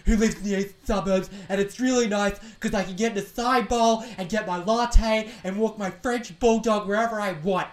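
mock posh local woman. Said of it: "all the comments being like".

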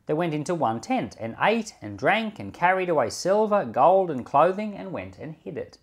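formal public reading of scripture. Acted. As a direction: read the passage aloud to the congregation. Reads scripture aloud.

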